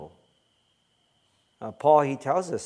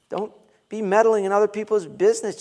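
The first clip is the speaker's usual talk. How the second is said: loud, fast, raised exhortation; fast preaching push, louder; emphatic exhortation; 7 semitones higher, 7 dB louder, faster than usual. Real, not acted. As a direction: drive it home to the pews.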